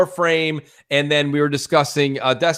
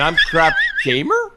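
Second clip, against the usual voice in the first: robot voice. Acted. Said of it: "with a question mark".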